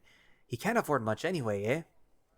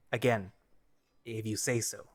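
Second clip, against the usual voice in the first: grudging muttered concession; defeated mutter. Acted. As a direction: mutter it, giving up. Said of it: "Vol mutters defeatedly".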